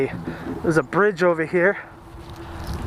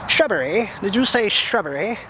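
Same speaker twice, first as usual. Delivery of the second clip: Monty Python quote. Retold or imitated. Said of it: "Monty Python".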